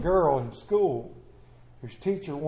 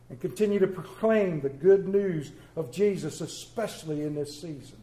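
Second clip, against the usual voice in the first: pastoral prayer. Acted. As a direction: pray over the people, earnest. Leads prayer after reading.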